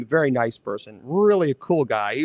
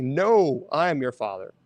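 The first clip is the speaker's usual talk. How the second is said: correct quote; 3 semitones lower than usual. Retold or imitated. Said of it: "It's like".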